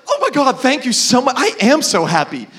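lightly imitated gushing thanks; happy waitress. Waitress thanking a customer for noticing, mildly overjoyed. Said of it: "You seem so happy".

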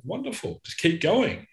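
high, delighted encouragement; bright coaxing from way up high; encouraging. Retold or imitated. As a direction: cheer him on to keep crying. Reassuring client who is crying.

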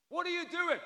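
high-pitched angry yell; angry shouting. Retold or imitated. Husband shouting at the car from the door, angry yell. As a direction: shout it as an outraged challenge. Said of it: "he starts shouting".

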